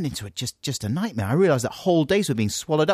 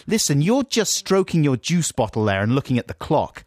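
louder, higher exasperated telling-off; indignant rant at an inattentive co-host; getting angry; 6 semitones higher, 4 dB louder than usual. Real, not acted. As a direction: complain as if deeply affronted. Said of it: "you're getting angry".

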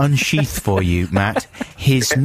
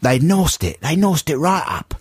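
imitated bad film Cockney; hammed-up, mangled Cockney; mangled Cockney accent; 4 semitones higher than usual. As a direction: do a badly faked Cockney accent. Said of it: "manglerised Cockney accent".

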